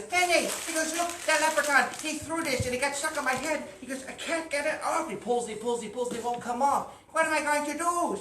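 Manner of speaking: high, loud, frantic; panicked cry. Acted. Farmer running to his wife, high and frantic. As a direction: burst in crying for help.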